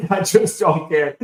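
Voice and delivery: high, slow laughing shrug. Real, not acted. Laughing it off to co-hosts about redistricting. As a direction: laugh it off, not caring.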